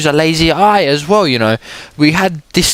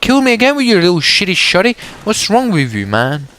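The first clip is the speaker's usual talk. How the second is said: gamer rage; 3 semitones higher than usual. Real, not acted. Angry gamer trash talk at enemy.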